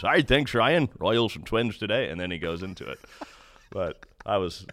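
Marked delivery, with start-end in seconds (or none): 0.0-2.1 lightly voiced veteran announcer's opener; Denny Matthews voice. Host lightly imitating Denny opening the Royals broadcast. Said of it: "the voice of the Royals, Denny Matthews".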